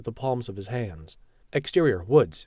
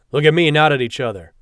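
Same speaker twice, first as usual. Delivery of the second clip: barked furious order; angry shout; 3 semitones higher, 9 dB louder than usual. Acted. Captain after punching prisoners.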